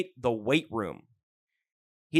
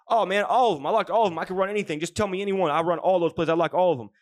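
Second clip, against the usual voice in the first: eager gushing; 3 semitones higher than usual. Retold or imitated. Jamarcus gushing to his coach.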